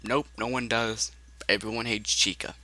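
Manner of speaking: soft low eerie voice; quiet Shadow Freddy. Acted. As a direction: murmur it low and dark. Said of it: "Shadow Freddy says".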